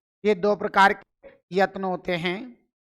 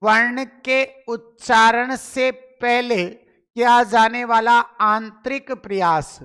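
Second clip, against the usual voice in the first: slow repetition. Shown as a demonstration. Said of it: "क्या कहा मैंने, बताओ?".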